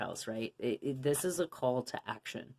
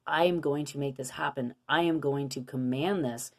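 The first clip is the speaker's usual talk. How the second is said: firm, grounded declaration; commanding tone. Shown as a demonstration. Showing viewers the empowered way to speak, firm and sure. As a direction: state it like you own it. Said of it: "listen to the tone of my voice".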